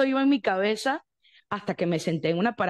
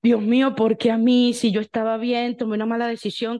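loud pleading cry to God; retold crying lament; 5 dB louder than usual. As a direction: wail it out, desperate. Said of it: "y a llorar, y a decir". (lamento a gritos)

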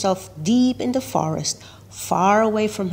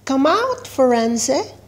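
high, louder call into the bushes; shouting; 6 semitones higher, 4 dB louder than usual. A narrator's reading. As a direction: shout for her across the hiding game. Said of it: "shouted Legs".

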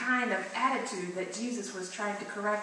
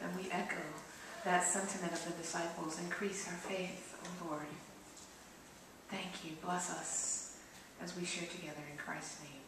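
hushed, reverent prayer voice. Acted. Opening prayer.

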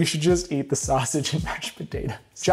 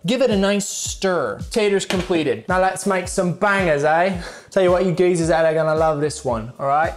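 cheeky mock-British geezer; put-on British accent, addressing the viewers; chummy fake British cook. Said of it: "use my British accent".

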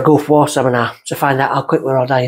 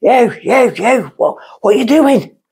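put-on drunk stammering; 9 semitones higher, slower than usual. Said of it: "I'm going".

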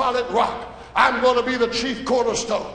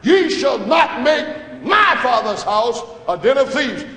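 preached command. Acted. Jesus cleansing the temple.

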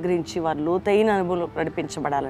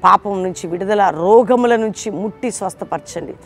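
loud pleading prayer rising in force; loud fervent prayer of deliverance; 5 dB louder than usual. Acted. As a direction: cry out for deliverance over the listeners. Leads fervent closing prayer.

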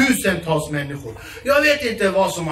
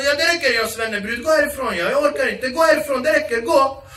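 svennebrud voice; 5 semitones higher than usual. Retold or imitated.

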